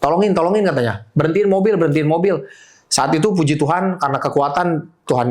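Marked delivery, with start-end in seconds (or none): 0.0-2.4 retold shout. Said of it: "Dia teriak".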